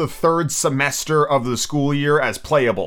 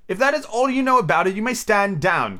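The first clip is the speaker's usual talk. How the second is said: king voice; 7 semitones higher than usual. Acted.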